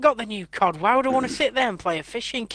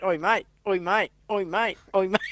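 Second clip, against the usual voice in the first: put-on Australian accent; 5 dB quieter than usual.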